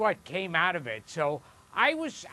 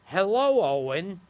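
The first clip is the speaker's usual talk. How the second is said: a dad imitating the parrot, pitched up and louder on hello; chirpy cartoon parrot greeting a boy; Iago parrot voice; 4 dB louder than usual. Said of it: "did an imitation of me".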